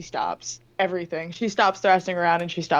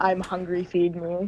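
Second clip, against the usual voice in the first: normal talking voice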